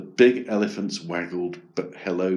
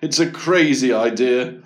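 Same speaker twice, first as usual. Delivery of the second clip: loud, amused dismissal from Dad; 5 semitones higher, 6 dB louder than usual. A narrator's reading. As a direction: scoff good-humouredly at the idea. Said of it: "Dad laughed".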